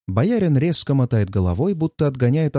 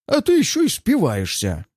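angry; 7 semitones higher than usual. Acted. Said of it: "Он зло кивает".

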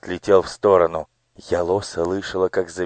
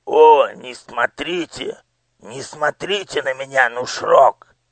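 higher, slow plea; mild pleading; 7 semitones higher than usual. Acted. Official begging the minister, mildly scared. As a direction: beg him not to look, a touch scared.

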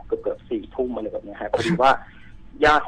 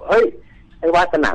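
calling out loud from the bridge; retold shout; 6 semitones higher, 4 dB louder than usual. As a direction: yell his name across to him. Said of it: "ก็ตะโกน". (ตะโกนเรียกเพื่อน)

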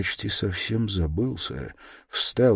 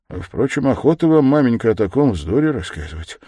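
mild irritation, raised voice; higher, peevish objection; irritated; 6 semitones higher, 7 dB louder than usual. A narrator's reading. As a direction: let annoyance slip out as if by accident. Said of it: "раздражительно и как бы нечаянно".

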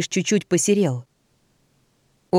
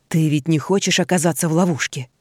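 through gritted teeth. Acted. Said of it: "процедил он сквозь зубы".

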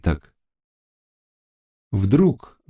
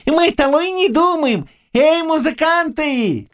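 put-on high, glad old man calling out; joyful calling. A narrator's reading. Old man calls the musicians, joyful shout. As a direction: call the musicians cheerfully. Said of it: "крикнул он".

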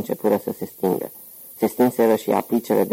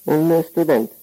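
much higher, lilting female reply; a maid answering in a sing-song lilt; lightly voiced woman, higher; sing-song woman's voice; 8 semitones higher, much slower than usual. A narrator's reading. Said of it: "un glas cântat de femeie".

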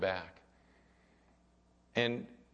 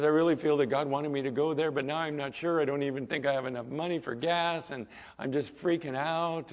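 higher, hurried, mock-anxious rush; mildly panicked retelling; 4 semitones higher than usual. A distressed young woman telling her pastor about gas money, mildly panicked. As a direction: lightly imitate someone freaking out. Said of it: "And she was panicking".

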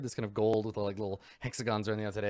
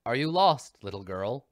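weird robot voice. Acted. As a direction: speak like a creepy security robot. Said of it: "weird robot voice".

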